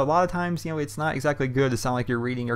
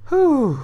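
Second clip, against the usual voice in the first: hot exhale; 14 semitones higher, 7 dB louder than usual. Real, not acted. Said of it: "it's hot in this room".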